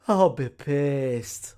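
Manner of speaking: slow emphatic. Real, not acted. Repeating his anger about the scam slowly. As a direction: stretch every word. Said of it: "repeats for emphasis".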